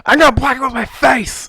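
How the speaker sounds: high loud mock shout; joking player. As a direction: yell the dumb plan gleefully.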